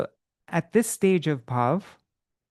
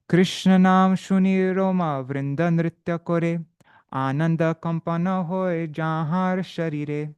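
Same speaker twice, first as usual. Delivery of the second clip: slow, lifted recitation of a verse; slow recited verse; Bengali verse reading; 2 semitones higher, slower than usual. Acted. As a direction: read the Bengali lines slowly and with devotion.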